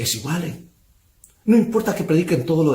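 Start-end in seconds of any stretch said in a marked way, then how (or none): 0.0-0.7 mocking devil. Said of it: "les dice".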